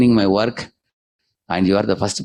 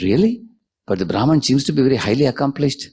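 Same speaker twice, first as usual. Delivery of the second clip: higher, incredulous question; disbelieving sage, pitched up high; surprised doubt; 6 semitones higher than usual. Acted. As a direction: sound amazed and unconvinced. Narada doubts the Lord's answer.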